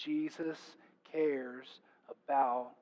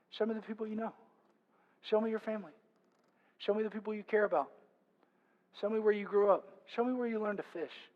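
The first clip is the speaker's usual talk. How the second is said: higher, evenly spaced requests; gentle invitation; 5 semitones higher, faster than usual. Acted. Jesus to new disciples walking their hometowns, gentle invitation. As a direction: warmly ask to be let into their lives.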